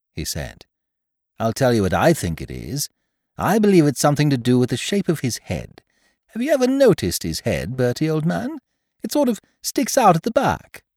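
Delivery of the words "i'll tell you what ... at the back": a hint of a gossiping friend, pitched up; eager friend sharing a theory; lightly voiced chum. Bicky theorises about Jeeves's head.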